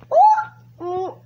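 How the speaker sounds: laughing oh oh, high and loud. Real, not acted. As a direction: burst out laughing in surprise. Car crash moment.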